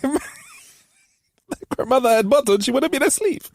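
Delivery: very high, slow mock granny; high slow old woman voice; old granny proverb voice. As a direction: drag it out like a wise old woman. Co-host mimics granny voice.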